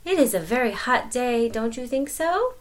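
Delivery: butter up the lion; sly greeting. Acted. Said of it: "Anansi said to Lion".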